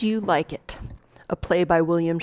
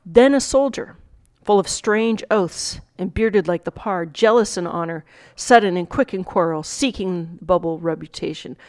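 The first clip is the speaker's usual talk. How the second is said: measured Shakespeare monologue reading; dramatic recitation; 3 dB louder than usual. Acted. Teacher reading the monologue to students, dramatic recitation. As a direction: recite it with weight on each new figure.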